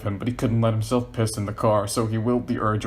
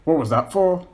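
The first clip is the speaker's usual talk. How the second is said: sharp, louder and higher, annoyed; angry; 7 semitones higher, 5 dB louder than usual. A narrator's reading. John annoyed at Paul in the car, sharp. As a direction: snap the question at him. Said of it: "John looked over angrily".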